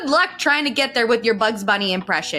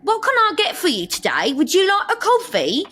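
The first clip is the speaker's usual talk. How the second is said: high, bright customer-service voice; barista voice; 7 semitones higher than usual. Retold or imitated. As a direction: greet the customer sweetly. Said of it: "customers that come up to me".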